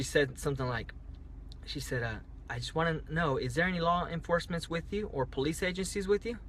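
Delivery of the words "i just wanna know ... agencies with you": lightly raised, businesslike phone voice; pure office mode. Retold or imitated. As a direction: ask it like an office clerk running through a routine question. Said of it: "said it like pure, like, office mode".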